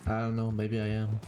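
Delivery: far-off voice in a reverberant room; hollow bathroom echo; echo chamber. Real, not acted. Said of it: "you sound like you're in an echo chamber".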